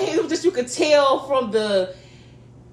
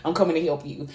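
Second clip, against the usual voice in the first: softer, lower mock apology; quiet apology; 7 semitones lower, 7 dB quieter than usual. Apologising to Rose while she mixes topping, quiet. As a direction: say sorry under your breath. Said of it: "I was like".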